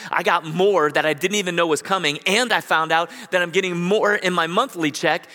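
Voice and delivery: put-on elderly woman telling her pastor, rising with joy; overjoyed woman. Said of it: "she just was crying".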